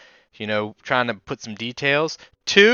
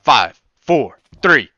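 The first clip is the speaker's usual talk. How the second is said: countdown growing louder to go; building countdown; 6 semitones higher, 10 dB louder, much slower than usual. Pretend. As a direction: build up to a shouted go. Official race countdown.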